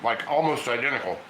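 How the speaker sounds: talking through a mouthful of food; words muffled round a bite; mouth full. Real, not acted. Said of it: "I have my mouth full".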